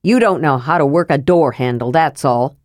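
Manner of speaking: a grumbling tired dwarf; grumpy dwarf Flint. Acted.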